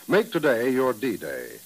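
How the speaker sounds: slow, emphatic announcer read; ad slogan. Acted. Announcer urges listeners to buy bonds, slow and emphatic. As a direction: land the slogan deliberately.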